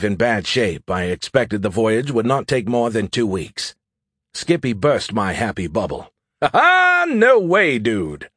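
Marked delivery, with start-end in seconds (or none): 6.4-8.3 high, loud chuckling laugh. A narrator's reading. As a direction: laugh it out gleefully. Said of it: "he chuckled".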